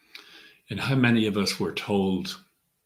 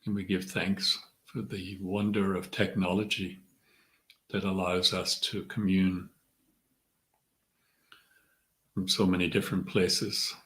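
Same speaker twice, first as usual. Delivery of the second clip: measured meditation guide, long pauses between phrases; guided meditation. Acted. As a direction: ease them inward, leaving room to breathe. Leads a centering meditation.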